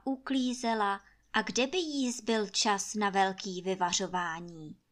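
ordinary delivery, nothing marked

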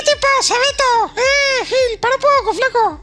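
high, loud furious yell; angry shout. Pretend. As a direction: scream at him, outraged. Acted angry worker confronting boss.

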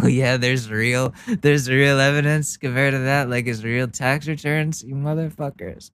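heated sarcastic aside. Real, not acted. Sarcastic aside on real evidence.

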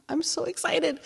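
genuinely thrilled, voice jumping up; so excited. Real, not acted. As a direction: squeal it out with real excitement. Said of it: "See, I'm already getting excited now".

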